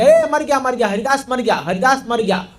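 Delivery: mock outcry, high at first, then settling; retold cry of alarm. Executioners announcing that Haridas has died, mildly shouted imitation. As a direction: imitate a crowd crying out, without full volume. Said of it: "ये लोग चिल्लाने लगे".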